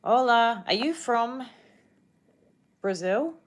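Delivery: ordinary delivery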